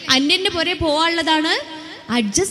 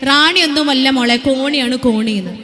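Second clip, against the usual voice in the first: put-on louder, blunt old woman's retort; old mother objecting; 5 dB louder than usual. Old woman in the audience stands up to object, loud retort. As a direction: call it out like an older woman correcting the speaker. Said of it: "മുമ്പിലിരിക്കുന്ന ഉമ്മ എണീറ്റ് നിന്നിട്ട് പറയാ".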